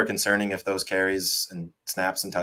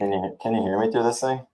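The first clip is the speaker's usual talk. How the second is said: inside a fishbowl; 4 semitones higher than usual. Real, not acted. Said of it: "you sound like you're in a fishbowl".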